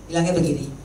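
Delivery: usual speaking voice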